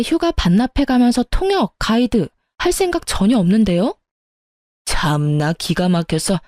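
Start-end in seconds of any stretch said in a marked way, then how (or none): 4.8-6.4 mother-in-law scoffing at her daughter-in-law, low and slow; disgusted scoff. Acted. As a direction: mutter it in disbelief. Mother-in-law scoffs before hanging up.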